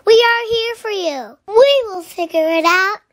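eager rallying shout; cheerful shout. A narrator's reading. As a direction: call out to lift a sad friend. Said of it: "Orange said with a shout".

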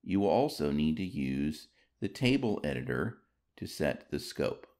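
normal talking voice

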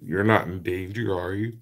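words stretched by a yawn. Real, not acted. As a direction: ask it mid-yawn. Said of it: "Sorry, I just yawned".

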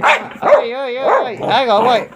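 squeaky high "hey, hey" to the dog; calm the jumping dog in a high voice; high pet voice. Real, not acted. Owner calming the jumping dog, high squeaky pet voice.

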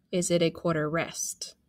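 quick whispered question; whispering. Shown as a demonstration. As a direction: whisper the word rest. Rest said as a whisper.

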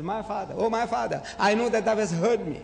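impassioned retold prayer, words spaced out; praying aloud. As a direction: declaim it heavenward so bystanders hear. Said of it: "I'm speaking to you loudly".

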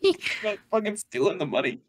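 squeaky laughing falsetto; high laughing voice. Acted. Mocking joke, laughing falsetto.

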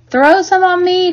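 put-on high, loud boyish plea; eager cry. A narrator's reading. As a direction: call out begging to join in. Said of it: "cried Avery".

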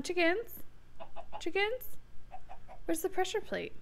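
soft, high questioning call; coaxing call. Pretend. Player calls chickens onto pressure plate, coaxing call. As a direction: gently lure animals over.

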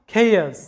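খেয়াস said "kay-oss", with no h sound; খেয়াস as the English "chaos" with the h silent. Shown as a demonstration. Teacher shows the class খেয়াস with a silent h. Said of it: "এইচ এর কোনো উচ্চারণ নাই".

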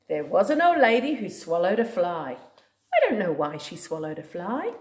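singsong storybook read-aloud; reading to a toddler. Acted. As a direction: read it like a bedtime book. Reading a picture book to a child.

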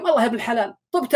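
fast and cheerful with a laugh in it; quick laughing reply. Retold or imitated. The analog-clock man telling his friend he's healed, laughing. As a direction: tumble it out, pleased to be well.

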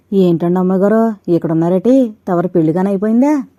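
loud, startled village maid calling out; loud surprised maid. Acted. Maid startled to see young mistress, loud. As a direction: blurt it out in surprise.

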